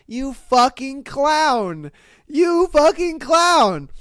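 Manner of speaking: slow, drawn-out mock outrage, rising; exasperated scolding. Reader scolding a caller who rang the wrong school, exasperated. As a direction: stretch the insult and build it.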